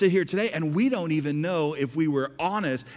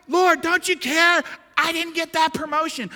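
mock whiny prayer; 12 semitones higher, 6 dB louder than usual. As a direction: complain to the Lord like a spoiled child. Mock prayer over lost promotion.

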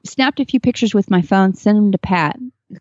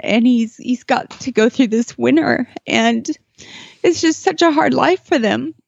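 higher, tight voice holding back tears; choked up; 3 semitones higher than usual. Real, not acted. Telling the host about the lone gelding, real choked-up voice. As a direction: push on while fighting tears. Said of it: "I didn't think I'd get emotional".

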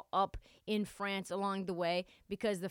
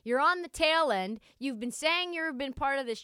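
mock commissioner scolding; 5 semitones higher, 4 dB louder than usual. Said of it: "put pressure on all the big stars".

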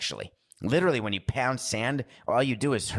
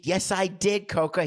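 defensive protest; 10 semitones higher than usual. Real, not acted. Arguing with his co-host.

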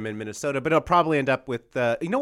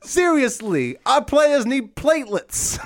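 vampire coach voice; 11 semitones higher, much slower than usual. Retold or imitated. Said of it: "get Billy Donovan on the phone".

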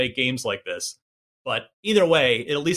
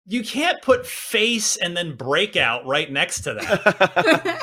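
laughing; 5 semitones higher than usual. Real, not acted. Joking about game name, laughing.

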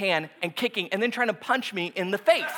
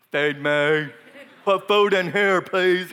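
mock helpless; 4 semitones lower, slower than usual. Pastor begging his wife.

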